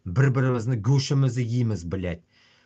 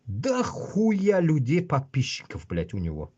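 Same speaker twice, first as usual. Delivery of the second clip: quoting a commenter; slower than usual. Retold or imitated. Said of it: "как кто-то ещё сказал".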